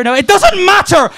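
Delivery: snapping loud and high; frustrated, cut himself off; exasperated outburst. Acted.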